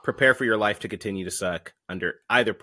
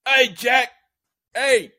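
put-on higher, louder throaty old man; back of the throat; 9 dB louder, much slower than usual. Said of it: "back of the throat".

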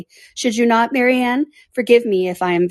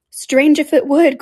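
slow, drawn-out cry, higher and louder; cried out; 7 semitones higher, 5 dB louder, slower than usual. Acted. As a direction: cry it out slowly in eager protest. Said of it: "cried Marianne".

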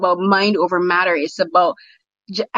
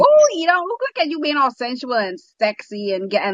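squeals the first words high, then settles; swooning over him on screen; excited squeal that drops back; gushing fangirl squeal; 4 semitones higher than usual. Retold or imitated. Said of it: "and it's just like".

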